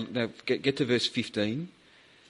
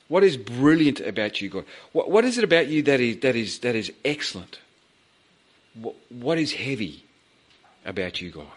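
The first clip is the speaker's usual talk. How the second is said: eager questioning; 3 dB louder than usual. Retold or imitated. Moses's eager questions to God.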